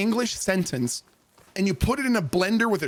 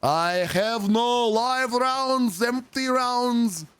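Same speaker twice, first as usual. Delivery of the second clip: slow, higher, drawn-out recruit voice; slow recruit recital; 4 semitones higher, slower than usual. Retold or imitated. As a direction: stretch each word like a dim recruit. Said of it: "And he goes".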